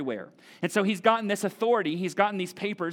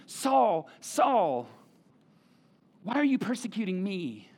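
pleading; slower than usual. Shown as a demonstration. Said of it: "passionately pleading".

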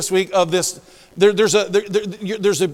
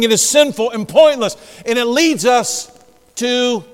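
louder, higher pulpit exhortation; forceful preaching; 5 semitones higher, 7 dB louder than usual. Acted. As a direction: preach it with emphatic punches.

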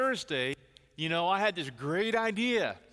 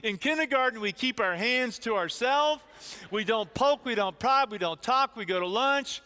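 put-on higher, firm kid voice laying down rules; little girl scolding; 5 semitones higher, 3 dB louder than usual. Kindergartner lecturing grandpa in the hallway, a hint of bossy child. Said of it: "She looks at me and she says".

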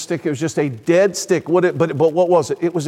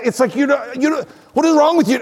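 higher, quick mock disbelief; exasperated children; 6 semitones higher, faster than usual. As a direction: imitate exasperated kids questioning Dad. Children question their baffled dad.

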